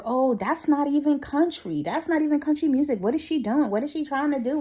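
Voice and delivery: high, loud, offended complaining; mock indignant. Mad coworker ranting that the song isn't country, high and huffy. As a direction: huff about it like it's an insult. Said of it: "She was like".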